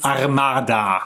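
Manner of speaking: put-on German accent on armada. Pronouncing a name for the German edition: Armada in German accent. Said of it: "Does that sound German enough for you?".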